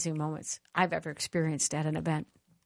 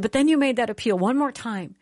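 emotional retelling; 6 semitones higher, 5 dB louder than usual. Retold or imitated. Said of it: "But she said".

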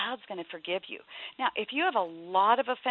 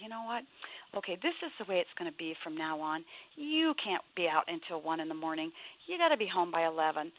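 calm, softer, matter-of-fact rule setting; calm and impersonal; 2 semitones lower, 3 dB quieter than usual. Retold or imitated. Dad setting a curfew for his teen, calm and even. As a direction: lay down the curfew without heat. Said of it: "You take it very impersonally".

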